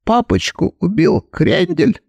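slow, lightly bleated plaint; a mild bleat of a fat son. Acted. Fat son accuses the killer, mildly bleating. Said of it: "проблеял бегемот Кальман".

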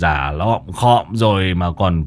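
slow, drawn-out exasperated sigh; weary scolding. Acted. Exorcist scolding the old ghost, slow and exasperated. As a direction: tut at a tiresome old nuisance.

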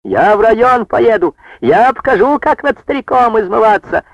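high, indignant shouting; outraged outburst. A narrator's reading. Brigadier furious at chairwoman for removing him, high indignant shout. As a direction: protest like a wronged old man.

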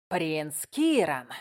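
slow, uneasy growling goblin; nervous growl. Acted. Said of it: "прорычал он немного нервозно".

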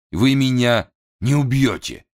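plain reading voice

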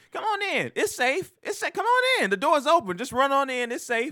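high, singsong lure; mock sweet welcome. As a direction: coax them in, sweetly high. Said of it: "you pull up to her house and say".

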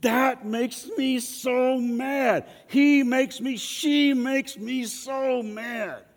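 high, slow, drawn-out complaint; mock angry whine. Pastor mimicking angry people blaming others, high slow whine. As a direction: whine it like a grumpy blamer. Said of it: "express our anger by saying".

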